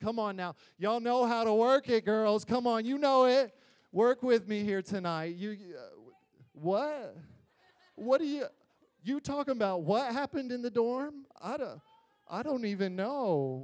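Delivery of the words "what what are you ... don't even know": put-on clueless, innocent, playing-dumb tone. Speaker acts out a boy being questioned about the dorm, imitating feigned innocence. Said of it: "That's what it was like".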